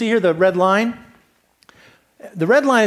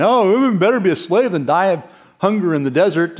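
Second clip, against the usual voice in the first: a touch of whiny grumble; mock grumbling; 4 dB louder, faster than usual. Hungry Israelites grumbling in the desert, mild mock whine. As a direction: grouse like hungry people fed up. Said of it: "They start grumbling".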